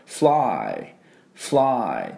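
"fly" with F joined straight to L and a long "ai"; English pronunciation model. Shown as a demonstration. Teacher showing how it is pronounced, English "fly". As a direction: say "fly" as one drawn-out English syllable. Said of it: "flyっていうふうに発音します".

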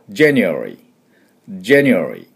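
January with the e shrunk to a light glide; January with half vowel. Shown as a demonstration. Teacher recapping the half-vowel version, lightly. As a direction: let the e in January slip by. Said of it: "半母音にしてしまうと".

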